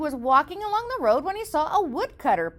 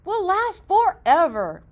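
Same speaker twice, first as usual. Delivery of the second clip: builder; 5 dB louder, slower than usual. Acted. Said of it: "replied the builder".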